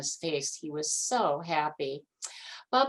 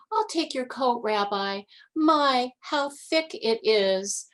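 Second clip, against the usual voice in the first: lightly voiced old grandmother; 6 semitones higher, 4 dB louder than usual. A narrator's reading. Baba Brena voiced higher.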